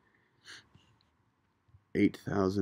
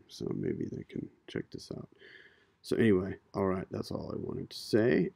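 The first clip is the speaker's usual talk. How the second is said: Hollywood voice. Acted. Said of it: "I'm gonna use my Hollywood voice".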